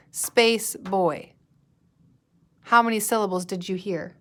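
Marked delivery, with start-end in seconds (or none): 0.1-1.3 put-on "Space Boy" as two separate beats; syllable by syllable. Shown as a demonstration. Teacher counting syllables with pupils, syllable by syllable. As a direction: clap out "Space Boy", one beat each. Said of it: "clap it to see how many syllables".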